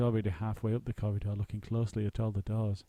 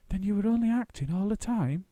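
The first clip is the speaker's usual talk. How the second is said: faltering; 11 semitones higher, 4 dB louder than usual. A narrator's reading. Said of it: "he faltered".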